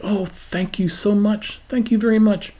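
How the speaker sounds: lightly hammed sweet gratitude; sweet thanks. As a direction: gush it sweetly, a little mock. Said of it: "Did you smile sweetly and say".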